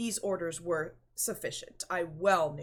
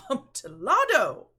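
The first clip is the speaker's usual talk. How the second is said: much louder, higher exclaimed name; loud cry; 5 semitones higher, 11 dB louder than usual. Acted. Fortunato crying out for the wine, loud exclamation. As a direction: let the word ring out greedily.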